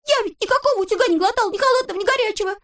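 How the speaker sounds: very high, fast protest; indignant shouting. A narrator's reading. Toropyshka yells at Neznaika, very high and fast. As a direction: yell in outrage. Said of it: "кричал Торопышка".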